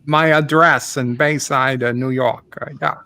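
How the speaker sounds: a hammed-up Australian accent, lightly done; lightly voiced Australian caller ranting about dingoes; mock Aussie accent. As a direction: play a blustering Aussie neighbour on the phone, mock Aussie twang. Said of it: "I do it as Ozzy Opre".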